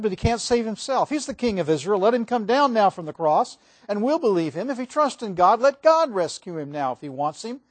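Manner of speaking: loud, high jeering crowd taunt; mocking. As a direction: sneer it up at the man on the cross. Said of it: "mocked him".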